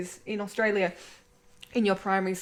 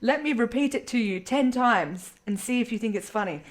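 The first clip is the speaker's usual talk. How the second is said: mock angry teacher; 4 dB louder than usual. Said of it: "got so angry with this one kid".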